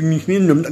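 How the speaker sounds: mock-reading unpronounceable names as nasal-sounding "ni-ni-ni" gibberish; charabia imité. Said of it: "un truc comme ça". (imitation de charabia imprononçable)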